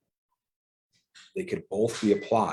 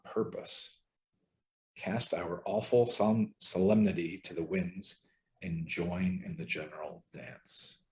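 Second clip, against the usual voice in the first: slow reverent reading. Acted. Reads Merton quote slowly.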